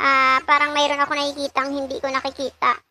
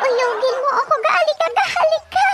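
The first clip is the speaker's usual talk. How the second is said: high teasing coo, rising toward the end; mock flirty wife; 10 semitones higher than usual. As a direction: coax him in a hammed-up sweet voice. (pabirong malambing na tawag ng asawa, mataas ang boses)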